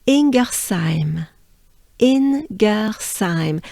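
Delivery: "Ingersheim" slow, ending in "saim" with an s; French pronunciation. Shown as a demonstration. Teacher introducing the Alsatian town's name, French way. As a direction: stretch "Ingersheim" syllable by syllable, French style. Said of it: "is the French way".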